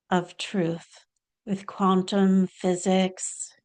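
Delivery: deliberate spiritual teacher, long pauses between phrases; measured, spaced-out channelled teaching; channelled Babaji. Acted. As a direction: deliver a guru's message phrase by phrase. Channels Babaji's message to followers.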